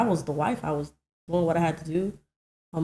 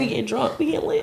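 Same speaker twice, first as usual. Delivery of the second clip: hyped; 7 semitones higher than usual. Real, not acted. Planning divorce party.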